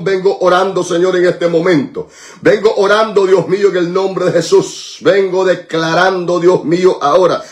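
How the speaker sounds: insistent, rolling prayer litany; intercessory prayer. Real, not acted. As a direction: pray each name with steady fervor. Prays for listed members by name. (oración de intercesión, como letanía ferviente)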